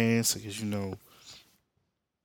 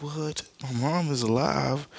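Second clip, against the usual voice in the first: high-pitched disbelieving mock reaction; astonished; 6 semitones higher, slower than usual. Barry finds his mom alive, astonished. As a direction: act stunned by impossible good news.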